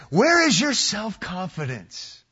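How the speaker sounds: mock self-help tone; wrong reading. Shown as a demonstration. Preacher mocking a self-help reading to his church. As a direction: read it like a pep-talk slogan. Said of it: "Don't read that as".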